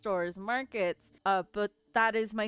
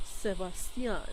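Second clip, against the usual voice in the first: Sebastian said the Spanish way, sə-BAHS-tee-ahn; "Sebastian" with Spanish vowels, bah not ba; Spanish pronunciation; 5 semitones lower, 3 dB quieter than usual. Shown as a demonstration. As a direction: say "Sebastian" like a telenovela star. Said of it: "You have to say it like that".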